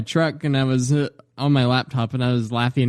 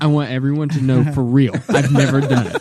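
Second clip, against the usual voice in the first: put-on earnestness, laugh creeping in; mock serious; 5 dB louder than usual. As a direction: play it dead serious as a joke. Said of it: "he got so serious".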